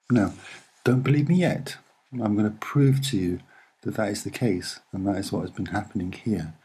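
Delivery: ordinary talk, nothing marked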